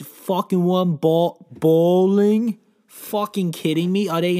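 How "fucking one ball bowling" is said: louder, higher incredulous bowling; outraged. Acted. Comedian mocking bowling as a sport, outraged yell. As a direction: bark the word in disbelief.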